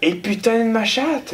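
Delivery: high, slow cursing exclamation; hammed-up swearing, drawn out; mock outburst. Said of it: "t'as joué fort cette semaine".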